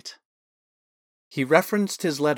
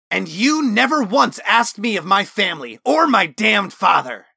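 loud, higher, bitter shout; parting shout; 8 semitones higher, 7 dB louder than usual. Acted. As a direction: hurl it back as he runs off. Osmond shouts while fleeing.

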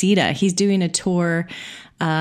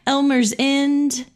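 drawn-out, higher mock British accent; put-on British accent; 6 semitones higher, slower than usual. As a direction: say the place name in playful British. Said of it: "sorry about the British accent".

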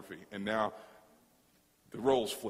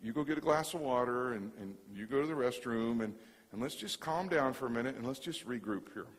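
calming; 3 semitones lower, 5 dB quieter than usual. Retold or imitated. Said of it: "And I just said".

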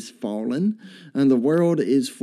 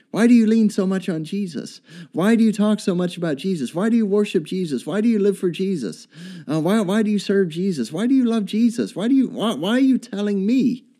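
higher, rapid-fire string of challenges; questioning world; 5 semitones higher, faster than usual. Acted. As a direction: pile up the questions like a baffled unbeliever. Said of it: "the world is going to ask this question".

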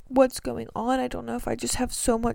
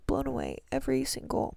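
talking through a yawn; words stretched by a yawn; 3 semitones higher, 4 dB quieter than usual. Real, not acted. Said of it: "Sorry, I just yawned".

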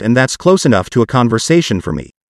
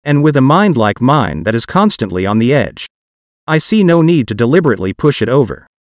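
synthetic text-to-speech voice; computer-generated voice. Real, not acted. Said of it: "my parts will be done with a computer-generated voice".

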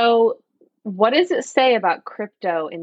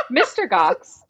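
laughing; 3 semitones higher, slower than usual. Real, not acted. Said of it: "Let me read this".

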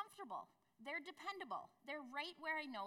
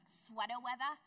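put-on Boston accent, r's dropped, said louder; a louder Boston sweater weather; 5 dB louder than usual. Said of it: "the Boston accent".

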